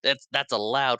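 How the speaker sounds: high, loud hurried protest; protesting Hook. Retold or imitated. Hook insisting to everyone the shooting is allowed, loud high protest. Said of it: "Hook is like".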